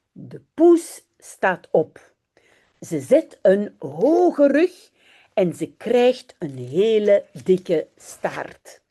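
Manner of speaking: put-on reading a children's story aloud in Dutch. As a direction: read it slowly and clearly for learners. (lecture d'une histoire pour enfants)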